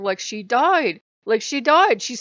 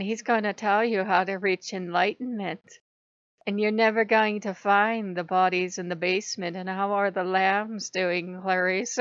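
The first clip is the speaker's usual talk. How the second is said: lightly voiced, measured villain; Hannibal Lecter. Mocking the enlightenment teacher, lightly Hannibal-like. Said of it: "he talked like this".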